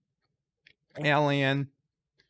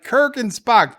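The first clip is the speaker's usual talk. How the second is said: awed; 7 semitones higher, 5 dB louder than usual. Retold or imitated. Awed at the historic bar.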